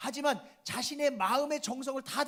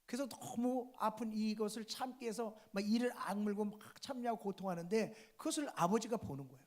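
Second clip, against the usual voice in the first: normal talking voice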